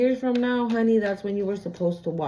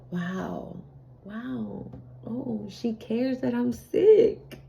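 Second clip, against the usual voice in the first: hushed amazement; 2 semitones higher, 3 dB quieter, much slower than usual. Retold or imitated. Masculine voiced amazed.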